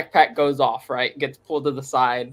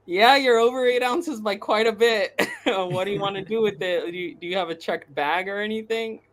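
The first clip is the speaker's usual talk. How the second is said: mock TSA lady; 6 semitones higher than usual. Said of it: "And she's like".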